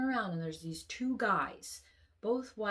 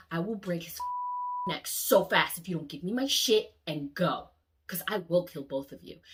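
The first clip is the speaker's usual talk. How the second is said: louder, steady threat; firm threat; 6 dB louder than usual. Retold or imitated. Threatening the looters holding his brother, louder. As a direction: make them believe you mean it.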